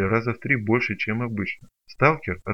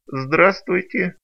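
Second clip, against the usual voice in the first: high, slow whining broken creature; whiny creature; 8 semitones higher, 6 dB louder, much slower than usual. Acted. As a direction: whine through the pain, much higher. Creature sour greeting. (плаксивое нытьё, выше и медленнее)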